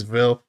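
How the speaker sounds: "Vil" said for "will", with a v; mimicked pronunciation. Host planning to count Creon's catchword, mimicked "Vil". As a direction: lightly imitate his "Vil", v for w. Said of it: "how many times he says".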